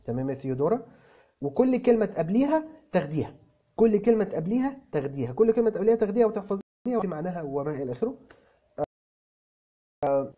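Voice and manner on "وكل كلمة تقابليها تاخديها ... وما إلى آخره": every word stressed, higher and insistent; teacher insists to Teodora on memorising words; emphatic repetition. Real, not acted. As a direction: drive the advice home by repeating it. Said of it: "emphatic teacher repetition".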